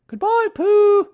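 very high, loud, drawn-out farewell; high singled-out shout of farewell; called-out goodbye. A narrator's reading. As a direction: call goodbye slowly in a high mother-animal voice. Kanga calls goodbye.

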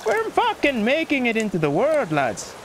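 boastful Irish lilt; mock-Irish cheer falling off at the end; Irish accent. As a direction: brag like a put-on Irishman. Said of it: "wanna speak like this".

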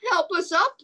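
high plea from little letters; crying for help. Acted. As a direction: call out for help. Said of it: "cried A".

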